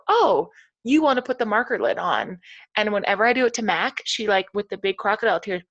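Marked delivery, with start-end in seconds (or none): 0.1-2.4 validating tone. Shown as a demonstration. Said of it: "you just kinda repeat and you go".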